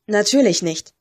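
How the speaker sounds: a touch of affronted dignity; clipped, mildly insulted reply; almost offended. Acted. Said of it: "Sie klang fast beleidigt".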